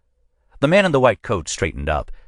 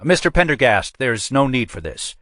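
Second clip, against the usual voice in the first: higher, anxious pleading captain; 7 semitones higher than usual. A narrator's reading. Captain pleads with Pendergast to stop the call, higher. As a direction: try to head him off. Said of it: "said Custer".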